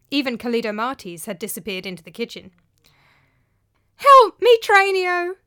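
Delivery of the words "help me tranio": high, loud desperate plea; gasped plea. A narrator's reading. Sick Philolakis begging his slave for help, high loud gasp. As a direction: gasp it out in misery. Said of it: "gasped out Philolakis through his misery".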